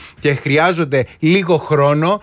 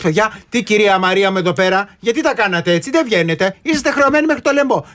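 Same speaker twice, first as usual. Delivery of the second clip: mock economist scolding; 3 semitones higher than usual. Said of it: "θα έρχεσαι".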